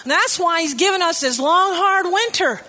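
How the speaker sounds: a hint of a fretful elderly lady; elderly cashier insisting. Retelling the cashier at the checkout, lightly voiced elderly lady. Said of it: "She went on to say".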